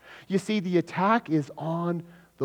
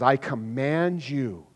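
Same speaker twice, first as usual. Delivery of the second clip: commanding; 9 dB louder, slower than usual. Acted. Paul commanding the spirit.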